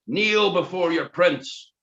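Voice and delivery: slow, high barked command; soldier yelling in ear. Acted. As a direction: soldier forces Gordon down, slow high yell. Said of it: "one yelled in his ear".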